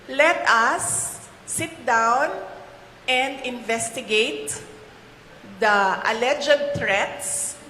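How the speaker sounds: slow, measured model answer from the proper official; calm, deliberate statement of the proper response; ideal official answer. Pretend. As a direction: lay it out slowly like the right official would. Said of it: "ang sagot dyan ay".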